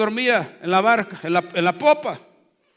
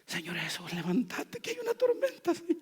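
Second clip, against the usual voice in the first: much softer, gentle plea; calm and soft; 10 dB quieter than usual. Acted. Pastor imagining disciples calmly waking Jesus, soft polite plea. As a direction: wake him politely, no urgency. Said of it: "¿Será que lo hicieron así?".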